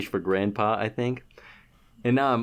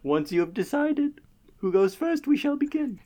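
town crier; 8 semitones higher than usual. Pretend. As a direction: proclaim like a royal herald. Opens roundtable as herald.

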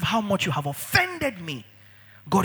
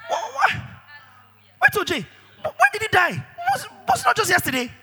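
confused; 14 semitones higher than usual. Acted. Confused stammering question.

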